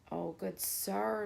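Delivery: soft, slow timid mouse plea; a hint of a scared little mouse; quiet pleading mouse voice; frightened mouse squeak. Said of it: "squeaked the frightened little mouse".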